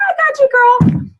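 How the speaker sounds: high, bright-pitched sassy reassurance; friendly church lady. Retold or imitated. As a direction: play the helpful lady swooping in to help. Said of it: "And she's like".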